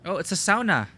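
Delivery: surprised. Real, not acted. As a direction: react with a surprised lilt. Surprised reaction.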